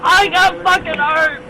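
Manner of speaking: pained shout. Real, not acted. Detainee in pain, restrained.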